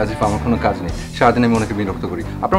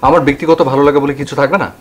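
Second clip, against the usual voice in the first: louder, defensive protest; irritated self-defence, raised voice; indignant retort; 5 dB louder than usual. Acted. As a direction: push back hard at the complainer. Acted quarrel between neighbours.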